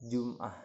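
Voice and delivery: "Jum'ah" with a clipped glottal stop, as Javanese speakers say it; Javanese pronunciation. Shown as a demonstration. Student demoing a Javanese word, clear Javanese pronunciation. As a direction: say "Jum'ah" the Javanese way, with a glottal break before the final "ah". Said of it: "bahasa Jawa".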